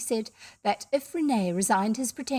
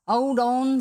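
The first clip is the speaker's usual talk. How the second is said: louder call to stop them; 6 dB louder than usual. A narrator's reading. Jerry to the men leaving, calling out. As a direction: shout after people walking away.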